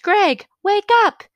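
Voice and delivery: high, loud shout to wake someone; yelling at a dozing friend; retold yell. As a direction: call out sharply to wake a sleeper. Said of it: "Then we yelled".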